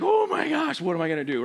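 put-on childish panic. Kid dreading swim class.

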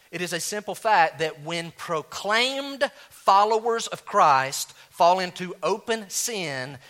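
preacher stressing a key truth; slow emphatic. Shown as a demonstration. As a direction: hammer each word home. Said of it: "Can I say that again?".

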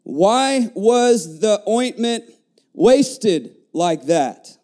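slow, drawn-out indignant question; measured indignation, word by word. Acted. Preacher quoting those who objected to the ointment, indignant. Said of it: "said to themselves indignantly".

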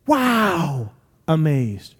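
a long, admiring wow; a touch of awe; impressed amazement. Acted. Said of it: "if Jesus were amazed, would it be".

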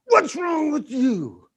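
panicked shout. Retold or imitated. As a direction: yell at the child out of fright. Parent scares after near accident.

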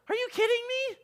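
very high, incredulous squeak of protest; mock disbelief. Preacher reacting to Jesus being glad, high-pitched incredulity. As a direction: pitch it right up in exaggerated disbelief.

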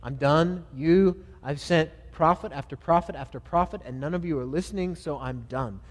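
acted fed-up outburst, building then dropping; exasperated. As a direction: play God fed up and done. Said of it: "He's exasperated".

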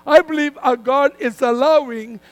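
firm, measured sermon delivery with punched key words; emphatic preaching. Real, not acted. Preacher telling a congregation God moves people so they seek him, emphatic preaching.

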